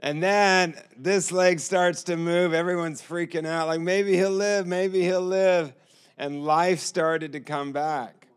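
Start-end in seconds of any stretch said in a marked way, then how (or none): 3.8-4.7 higher, eager hopeful cry; hopeful excitement. Retold or imitated. Staff freaking out over the leg, higher hopeful cry. 4.7-5.7 slow, higher, wondering hope; slowed hopeful echo. Retold or imitated. Staff echoing the hope, slow higher wonder.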